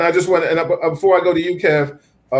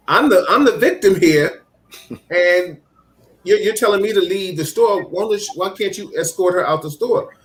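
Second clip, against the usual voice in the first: imitated indignant complainant, pitched up; retold protest in a raised voice; 5 semitones higher than usual. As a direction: act out her higher-pitched objection to police. Retold woman protesting to the police.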